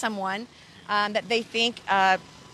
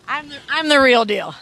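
louder, firm and falling; emphatic boast; 2 semitones higher, 7 dB louder than usual. Real, not acted. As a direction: plant it hard, no doubt left.

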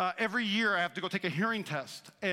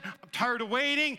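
Sarai's louder frustrated shout; mock frustrated cry; exasperated outburst; 5 semitones higher, 4 dB louder than usual. Sarai complaining to Abram, raised voice. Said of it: "She says".

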